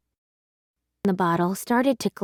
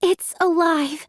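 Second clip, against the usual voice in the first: astonished; 7 semitones higher, 3 dB louder than usual. Acted. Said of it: "I said".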